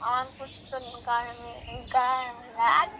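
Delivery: mock stutter. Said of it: "school থেকে আসলে কি তোতলাও নাকি তুমি".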